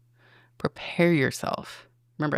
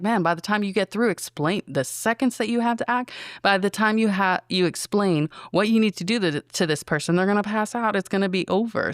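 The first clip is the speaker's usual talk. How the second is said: higher, louder and rushed; exasperated; 5 semitones higher, 3 dB louder than usual. Retold or imitated. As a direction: pile up the objections, getting worked up. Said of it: "I was like".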